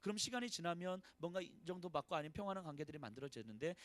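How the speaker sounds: ordinary talk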